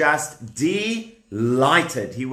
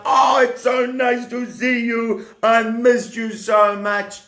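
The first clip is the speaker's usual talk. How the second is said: high, loud gush of reunion joy; overjoyed greeting; 8 semitones higher, 3 dB louder than usual. Acted. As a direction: gush as if hugging someone long missed. Acting a reunion hug.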